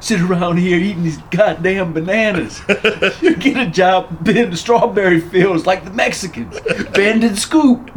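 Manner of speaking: hammed-up cop tirade; mock angry cop. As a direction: bark it like a mean sergeant, laughing. Quoting cop berating stoners.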